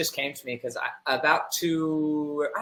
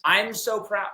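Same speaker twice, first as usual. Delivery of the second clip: self-indulgent pride; 5 semitones higher, slower than usual. Retold or imitated. Mocking a friend who praises with self-indulgent pride, mildly smug. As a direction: parody the pleased-with-yourself praise. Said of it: "with a self-indulgent declaration".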